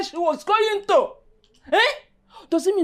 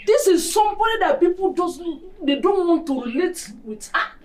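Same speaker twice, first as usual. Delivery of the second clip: raised, scolding voice; angry scolding. Acted. Mother scolding daughter about her friend, angry. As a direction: tell her off hard.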